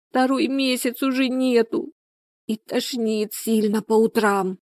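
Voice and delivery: high, plaintive lament; moaning. A narrator's reading. Людмила confides her pregnancy signs to Галина, moaning. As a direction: draw it out in misery. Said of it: "простонала та".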